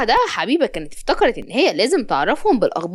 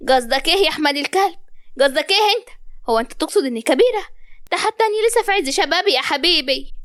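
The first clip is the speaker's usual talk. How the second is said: higher-pitched offended mother, lightly acted; mildly indignant; 5 semitones higher than usual. Mother challenges her son over her age, mildly indignant. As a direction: protest as if your youth were insulted.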